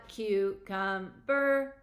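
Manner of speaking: slow, flat robotic syllables. Shown as a demonstration. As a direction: say it like a robot, very slowly. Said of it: "Say it like a robot".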